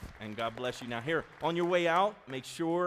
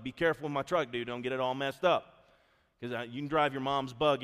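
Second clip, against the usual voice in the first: warning son. Retold or imitated. Father warning son about truck.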